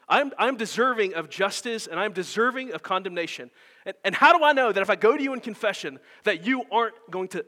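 the guilty heart begging, afraid of judgment; fearful sinner. Acted. The darkness in us speaking to Christ the lion, pleading fearfully. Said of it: "sees the lion who is Christ and says".

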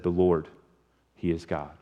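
soft, low awestruck declaration; awed worship. Retold or imitated. Crowd on their faces declaring the Lord is God, hushed. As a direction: whisper it in reverent awe. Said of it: "they fell on their faces and said".

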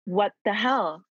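stunned, rising, with a laugh in it; can't believe what she's hearing; shocked disbelief. Retold or imitated. Told a baby's head is showing, she blurts in shock.

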